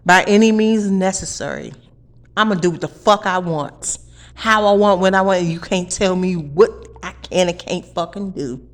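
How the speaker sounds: loud defiant outburst. Real, not acted. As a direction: hurl it in their faces. Defiant angry rant.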